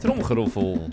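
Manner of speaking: drumroll announcement. Acted. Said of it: "tromgeroffel van Travis Barker".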